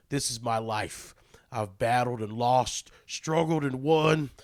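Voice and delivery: slow, drawling redneck read of a quote. Acted. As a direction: read it like a backwoods tough guy. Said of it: "I don't know why I'm using a redneck voice".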